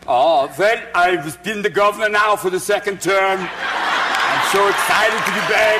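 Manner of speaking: put-on Austrian governor accent, slow at the end; lightly Austrian strongman voice.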